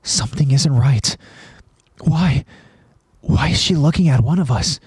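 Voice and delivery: understated acted alarm; mild gasping alarm. A narrator's reading. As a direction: puzzle it out with growing unease. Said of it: "Armin gasps".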